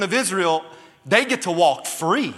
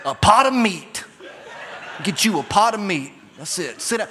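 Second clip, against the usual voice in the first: redneck answer. Retold or imitated. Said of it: "sounds like a bunch of rednecks".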